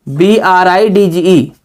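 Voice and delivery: slow, letter by letter; slow spelling out. Shown as a demonstration. Teacher spelling bridge aloud, slow and deliberate. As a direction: spell it out clearly for the class. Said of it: "ये ब्रिज".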